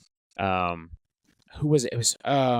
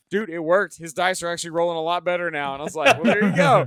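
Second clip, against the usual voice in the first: excited retelling; 8 semitones higher, 4 dB louder than usual. Retold or imitated. Retold exchange after dice roll.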